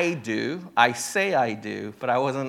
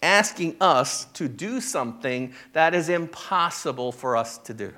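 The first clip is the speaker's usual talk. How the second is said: 1 disciples asking; 2 semitones higher than usual. Retold or imitated. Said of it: "disciples were asking Jesus".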